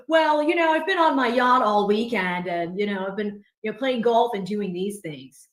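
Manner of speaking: loud-starting impersonation of a corporate guy; Sprinkle. Acted. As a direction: boast like a yacht-owning professional. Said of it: "But the Sprinkle impersonation is".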